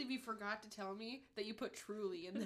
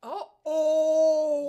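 loud, higher alarmed oh oh; shocked gasp; 6 semitones higher, 17 dB louder than usual. Real, not acted. Hearing the shark cage drops, gasping in shock. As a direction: react like you just saw it fall. Story: cage chain breaks.

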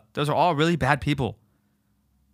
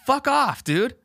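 angry retort; 9 semitones higher, much slower than usual. Pretend. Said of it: "I'd be like".

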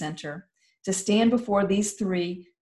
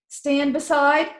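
slow, louder command; stern order; 8 semitones higher, 5 dB louder, slower than usual. Acted. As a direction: give it as a firm order. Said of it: "Ranger Commander ordered".

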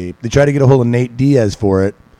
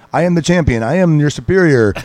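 put-on raised-pitch boast in a Russian accent; 5 semitones higher than usual. Fighter boasting while hitting his opponent, Russian accent. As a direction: imitate a Russian champion lording it over a rival. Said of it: "he's got this, like, Russian accent".

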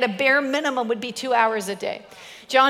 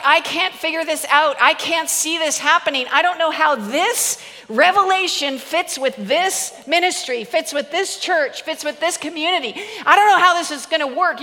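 perplexed; 4 semitones higher than usual. Retold or imitated. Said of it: "The more like".

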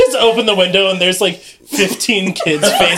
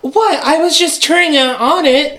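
higher-pitched, defensive excuse; indignant, pitched up; defensive protest; 6 semitones higher than usual. Acted. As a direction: protest your innocence to your brother. Miles protests being blamed.

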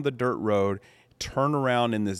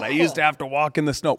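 lightly mocking old-timer complaint; a hint of a grumbling grandpa; grumpy old-timer; 5 semitones higher than usual. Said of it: "you always hear those stories about".

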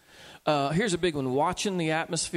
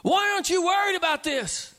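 much higher, imitating anxious alarm; worried questioner; 11 semitones higher, 4 dB louder than usual. A friend asks the calm believer, anxious. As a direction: squeak it out like someone panicking. Panicked people voiced in sermon.

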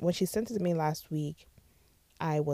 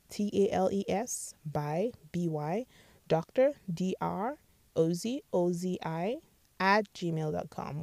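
each letter spelled out slowly and clearly; spelling it out slowly; 4 dB quieter, slower than usual. Shown as a demonstration. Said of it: "you can send me an email".

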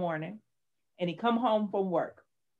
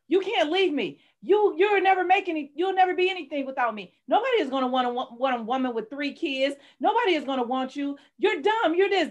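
imitating husband berating; 6 semitones higher than usual. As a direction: mimic his belittling rant. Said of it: "first he would go".

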